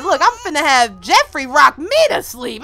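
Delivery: ordinary talk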